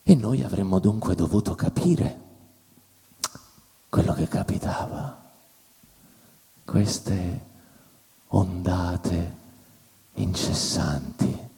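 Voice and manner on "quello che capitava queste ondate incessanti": whisper. Acted. Whispered aside.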